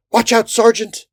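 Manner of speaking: high, urgent warning cry; shouted warning. A narrator's reading. Soldier warning his sergeant in battle, high shout. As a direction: yell to warn a comrade. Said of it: "a fourth man warned".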